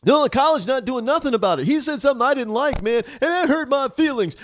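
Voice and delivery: high, whiny put-on student voice; mocking student. Host mocking a scared, offended campus student in a high whine. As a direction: lightly parody a scared, offended kid.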